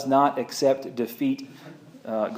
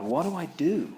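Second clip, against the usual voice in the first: terrified plea; 6 dB quieter than usual. Retold or imitated. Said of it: "He crawls in terrified".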